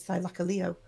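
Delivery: Thylacoleo ending in a stressed LEE-oh; emphasis on Leo. Shown as a demonstration. Auctioneer quoting documentaries, Thylacoleo with LEO stressed. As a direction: say Thylacoleo as thigh-LACK-a-LEE-oh. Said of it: "It's always ended with Leo as the".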